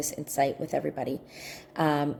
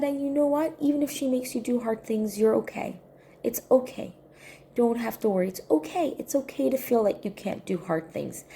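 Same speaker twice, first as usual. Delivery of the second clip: put-on higher-pitched comforting of a child; gentle reassurance; 6 semitones higher than usual. Aunt telling upset niece she is okay, reassuring.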